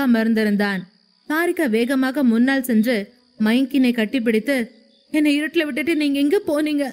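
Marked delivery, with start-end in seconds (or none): 5.1-6.8 higher, fast tearful reproach; crying question. A narrator's reading. Wife hugging her husband after the dark, crying. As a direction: sob it out as she clings to him. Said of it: "என்று அழுது கொண்டே கேட்டாள்".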